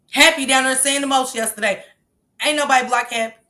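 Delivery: normal talking voice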